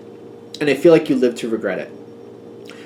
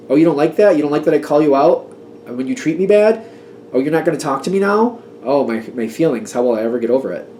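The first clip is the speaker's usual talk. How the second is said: sarcastic mockery. Sarcastic mock of a bully.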